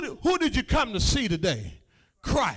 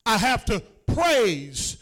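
rhythmic preaching. Acted. Preacher to his congregation, rhythmic rising preaching. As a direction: build each line, preacher's cadence.

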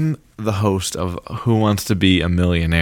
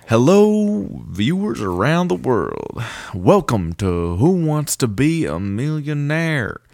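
Southern accent attempt; 5 semitones higher, slower than usual. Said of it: "you're, like, mostly your own voice".

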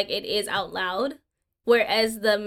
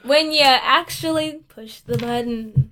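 newscaster voice. Acted. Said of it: "newscaster voice on".

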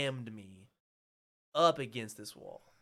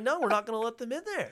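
loud, high, quick rebuff; raised-voice mock refusal; firm cop refusal; 9 semitones higher, 8 dB louder, faster than usual. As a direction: imitate a cop shutting someone down. Cop's refusal, acted out.

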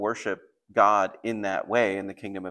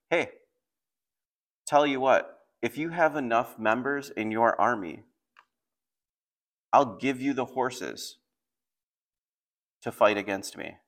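mocking; 3 semitones higher than usual. Enemy envoy offering horses to the besieged, lightly mocking. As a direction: dangle a mock offer to a weaker foe. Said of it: "is mocking them".

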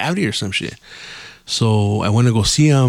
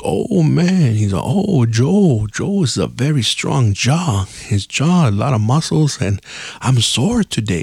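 drawn-out, higher marveling quote; amazed dentist; 4 semitones higher, slower than usual. Retold or imitated. Dentist tripping out over a strong jaw, amazed. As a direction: imitate the dentist groaning in awe. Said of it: "He was tripping out".

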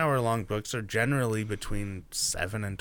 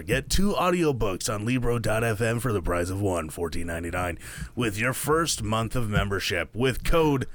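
smooth radio ad announcer; movie trailer voice for an ad read; Will Arnett radio voice; 3 semitones lower than usual. Acted. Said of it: "that was your best radio voice".

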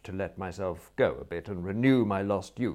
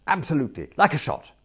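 higher, brisk assent; eager agreement; 7 semitones higher, 6 dB louder, faster than usual. Acted. Relieved prisoner accepting his fine, high and eager. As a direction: agree keenly, pitched up.

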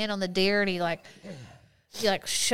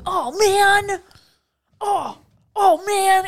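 high, loud mock dismay over a lost screw; imitating his panic; 12 semitones higher, 10 dB louder, slower than usual. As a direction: ham up the overreaction. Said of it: "that's not an exaggeration".

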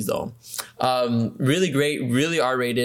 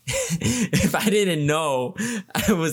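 talking through laughter; slower, breaking up with real laughs; laughing; 4 semitones higher, slower than usual. Real, not acted. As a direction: chuckle through the words. Laughs at his own remark.

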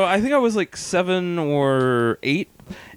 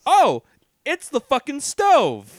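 sudden dread; 10 semitones higher, 3 dB louder, slower than usual. Retold or imitated. Realising the burn.

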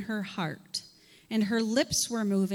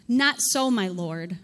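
pleading Hannah; 3 semitones lower, 5 dB louder, slower than usual. Acted.

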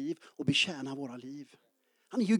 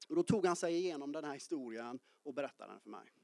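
ordinary delivery

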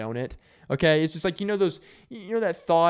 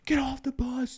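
mock drill sergeant yell; 11 semitones higher than usual. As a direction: bark the order like a sergeant at boot camp. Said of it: "screaming at 'em".

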